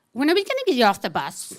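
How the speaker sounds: quick put-out question; impatient passenger. Retold or imitated. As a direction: ask it fast, as the inconvenienced passenger. Inconvenienced girl asks the driver.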